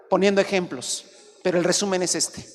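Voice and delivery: ordinary talk, nothing marked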